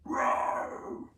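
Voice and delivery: loud lion roar shout; big animal roar. Shown as a demonstration. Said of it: "It roars".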